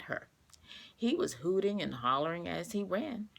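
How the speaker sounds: clear, gentle storybook reading; reading to children. A narrator's reading. Teacher reading a picture book to her class, gentle storytelling. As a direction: read it like story time for young kids.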